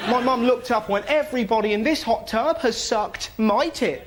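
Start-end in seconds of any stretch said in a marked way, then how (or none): 1.1-4.1 lightly voiced mum, pitched up, calling out; mum's mock announcement. Mum embarrassing the family in the hot tub, mock proclaiming. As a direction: proclaim it high, as a hammed-up announcement.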